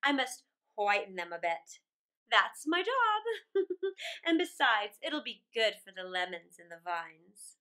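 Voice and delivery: loud queen with a laugh mid-line; Snow Queen laughing. Acted. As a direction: boast merrily as the ice queen.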